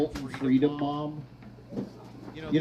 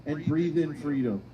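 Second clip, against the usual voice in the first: mock yoga instructor; slower than usual. Yoga instructor guiding the rally.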